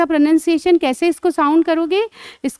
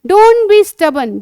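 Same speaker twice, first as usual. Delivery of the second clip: slow, higher and louder English phrase; slow, emphatic model; 5 semitones higher, 5 dB louder, much slower than usual. Shown as a demonstration. Teacher modelling a scolding phrase for a child. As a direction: stretch it out for the child. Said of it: "क्या बोलते हैं?".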